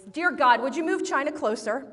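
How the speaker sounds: mild mock-angry child praying; angry prayer. Son praying for his toy, mildly angry. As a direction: imitate a cross kid making demands of God. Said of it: "in a really angry voice".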